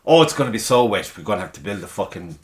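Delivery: overdramatic mock complaint, loud at each start; hammed-up alarmist moaning; mock drama. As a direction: imitate people making a drama of the weather. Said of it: "everything is a fucking drama these days".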